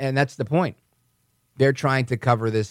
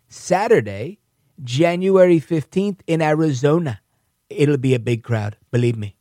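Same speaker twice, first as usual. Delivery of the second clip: Trump voice; 3 semitones higher than usual. Retold or imitated. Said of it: "I gotta do that in my Trump voice".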